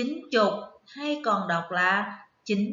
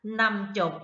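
slow confirmation; slower than usual. Shown as a demonstration. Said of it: "Đúng rồi".

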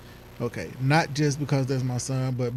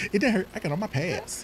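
laughing while quoting; 5 semitones higher than usual. Retold or imitated. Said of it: "He said".

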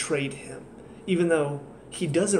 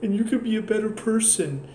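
mock pleading therapist. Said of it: "she just turns around and".

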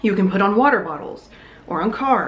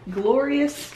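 delighted; 7 semitones higher than usual. Real, not acted. Showing off revived fern.

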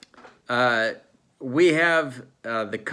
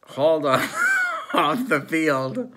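higher, halting, emotional delivery; mock choked up; 6 semitones higher, 4 dB louder than usual. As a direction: pretend to get choked up, dragging the words out. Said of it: "I'm a little emotional".

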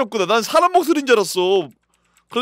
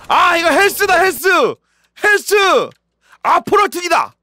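excited shouting; 7 semitones higher, 5 dB louder than usual. Real, not acted. Excited reaction to game.

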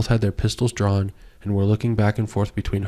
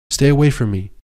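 high, loud frightened cry; terrified plea; 5 semitones higher, 5 dB louder than usual. Acted. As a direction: push him away with your voice. Terrified woman facing attacker.

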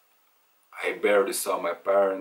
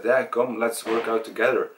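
friend's urging; 3 semitones higher than usual. Retold or imitated. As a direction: quote a pal rallying you to join in. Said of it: "he said".

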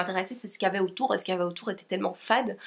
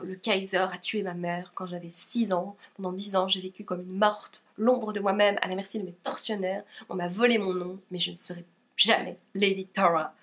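understated, slightly lowered reading voice; blurb reading; 2 semitones lower than usual. Acted. Vlogger reading a book blurb to viewers, understated reading voice.

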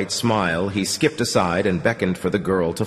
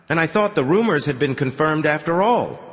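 higher-pitched, light musing; thoughtful; 8 semitones higher than usual. A narrator's reading. Musician wonders aloud about rumors, thoughtfully. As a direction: muse as if talking to yourself. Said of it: "the musician said thoughtfully, as if he were talking to himself".

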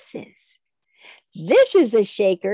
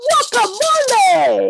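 sung out high and louder; nice loud voice; 9 semitones higher, 5 dB louder than usual. Shown as a demonstration. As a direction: belt it out, not a shout. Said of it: "with my loud voice".

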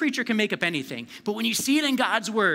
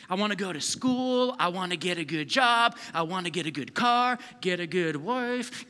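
American dreamer. Acted. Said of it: "We hear things like, okay, the American dream".

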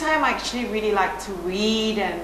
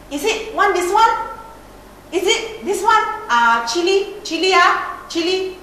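high-pitched Singlish hawker auntie; raised, questioning Singaporean auntie accent; 9 semitones higher, 5 dB louder than usual. Retold or imitated. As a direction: imitate a coffee-shop auntie's Singlish questions. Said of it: "those aunties at coffee shops".

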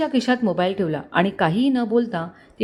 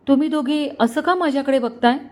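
timid, fearful question; 6 semitones higher than usual. A narrator's reading. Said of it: "तिने भीत भीत विचारले".

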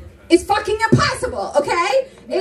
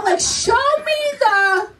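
demanding; 5 semitones higher, slower than usual. Pretend. Demanding a man prove he works.

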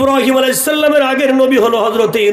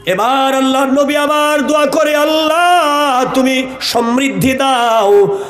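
melodic waz preaching. Acted. Preacher recounting a prophet's story to a congregation, melodic chant. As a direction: tell the story in long, chanted phrases.

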